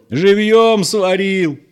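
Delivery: very high, loud scream; screaming in pain. A narrator's reading. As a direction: howl it out, scalded. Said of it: "кричал Петро".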